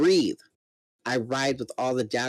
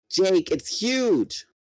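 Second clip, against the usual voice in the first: yelling down; 6 semitones higher, much slower than usual. Acted. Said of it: "Tobias yelled down from above".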